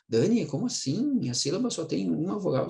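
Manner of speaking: a hint of a doubtful pupil asking; puzzled student. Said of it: "voicing a student's doubt".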